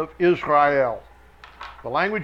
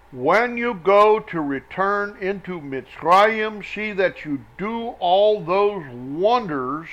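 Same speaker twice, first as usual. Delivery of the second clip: slow, emphatic Bible reading; deliberate reading from scripture; 2 semitones higher, 4 dB louder, slower than usual. Acted. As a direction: proclaim the verse slowly, leaning on key words. Reads scripture aloud verse by verse.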